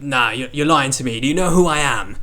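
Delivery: imitating an indignant Cockney stranger; mildly affronted, put-on Cockney voice; rough attempt at a Cockney challenge; attempted Cockney accent. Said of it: "four different accents for this one guy".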